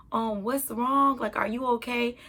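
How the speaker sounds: concerned stranger. Retold or imitated. Stranger in van asks gently.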